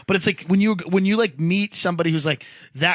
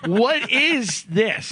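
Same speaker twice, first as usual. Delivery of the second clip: drawn-out, higher, acted disbelief; incredulous; 4 semitones higher, much slower than usual. Colleague reacting to a dad's threat, drawn-out incredulity. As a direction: stretch the question out, appalled.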